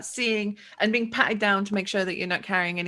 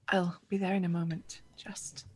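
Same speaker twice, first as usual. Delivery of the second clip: unvoiced whisper, much softer; 3 semitones lower, 10 dB quieter than usual. Fariha whispers to the vendors she will come soon, whispering. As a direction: breathe it secretly to the visitor. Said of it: "she whispers quietly".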